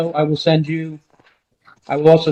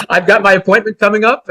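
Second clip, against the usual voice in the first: chuckling through the words; amused, talking while laughing; 3 semitones higher, 3 dB louder than usual. Real, not acted. Laughs at judge's joke.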